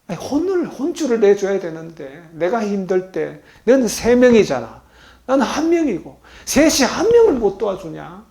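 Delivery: high, loud mock rebuke; mock scolding. Preacher voicing an imagined rebuke to sleeping disciples, mock scolding. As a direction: playfully scold the lazy friends.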